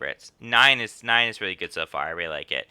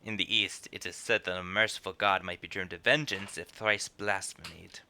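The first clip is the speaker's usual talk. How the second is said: low, quiet, measured threat; menacing enforcer; 3 semitones lower, 6 dB quieter than usual. Acted. Enforcer answers the begging debtor, quietly menacing. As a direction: deliver a veiled threat softly and low. Reads menacing character's lines.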